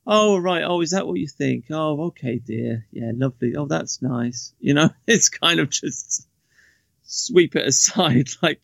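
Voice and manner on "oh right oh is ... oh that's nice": sarcastic. Acted. Man brushing off a woman's opinions, sarcastic. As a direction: humour them with dismissive, patronising sarcasm. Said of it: "I always just say something sarcastic like".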